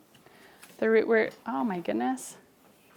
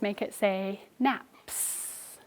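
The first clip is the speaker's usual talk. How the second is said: slow prompt; 7 dB quieter, much slower than usual. Shown as a demonstration. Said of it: "Add your suffix".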